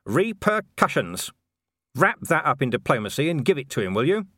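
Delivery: steady menace under politeness; firm Vimes. A narrator's reading. Vimes threatens diplomatically.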